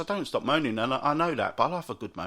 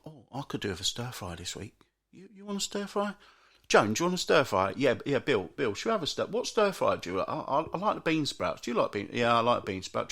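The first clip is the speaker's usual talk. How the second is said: dithering shoppers; 4 semitones lower than usual. Retold or imitated. Imitating dithering couple at stir fries.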